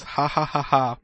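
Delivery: mock laugh. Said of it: "the last comment I got from him was".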